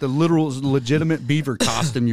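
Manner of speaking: excited. Real, not acted. Excited telling about Buc-ee's merch.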